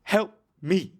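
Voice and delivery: hammed-up begging, word by word, pitch climbing; mock desperate prayer. Guest acting his prayer to baby Jesus, mock desperate. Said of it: "my response was".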